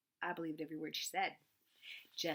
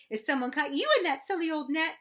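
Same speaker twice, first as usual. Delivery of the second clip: shouted; 8 semitones higher, 9 dB louder than usual. A narrator's reading. Sister shrieking at her brother, nearly bawling, very high loud shout. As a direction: shriek it in tearful outrage. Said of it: "she shouted".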